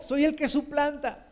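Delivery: acted confession with a touch of anguish; heartfelt confession. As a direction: pour out Jacob's heart, building as the troubles mount. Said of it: "voy a dejar un poquito mi corazón que hable".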